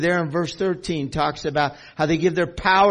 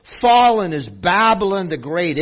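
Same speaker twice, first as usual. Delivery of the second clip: loud, forceful proclamation; mighty voice; 3 semitones higher, 5 dB louder than usual. Acted. Angel crying out Babylon's fall, in a mighty voice. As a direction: proclaim it strongly, hitting each "fallen". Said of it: "in a mighty voice he says".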